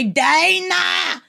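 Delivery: a slow light action-hero impression; quoting True Lies to a listener named Dana, slow and lightly voiced; Arnold Schwarzenegger. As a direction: call out "jump" like a movie hero. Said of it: "my Arnold Schwarzenegger True Lies quote".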